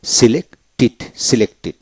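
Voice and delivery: সিলেক্টেড ending in a clear "tid"; -ted as tid. Shown as a demonstration. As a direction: sound the last syllable of সিলেক্টেড as tid. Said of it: "টি ই ডিতে টিড উচ্চারিত হয়". (সিলেক্টেড, শেষে টিড উচ্চারণ)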